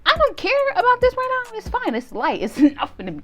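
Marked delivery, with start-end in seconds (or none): 0.0-1.9 cocky bravado. Retold or imitated. Bravado on the climb.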